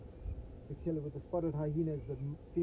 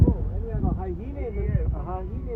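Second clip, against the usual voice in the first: excited; 4 semitones higher, 8 dB louder than usual. Real, not acted. Guide spots a hyena.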